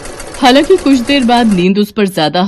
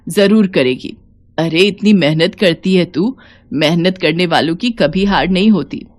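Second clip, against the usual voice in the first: put-on affectionate old mother-in-law. Savitri reassuring Seema about her exams, tender. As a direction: brush off worry, ask tenderly.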